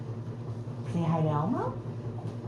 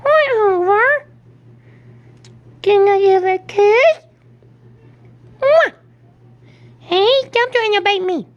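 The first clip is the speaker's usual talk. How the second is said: louder playful puppet voice; Elmo voice; 3 dB louder than usual. Pretend. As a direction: play the toy teasing the dog. Voicing Elmo toy to dog.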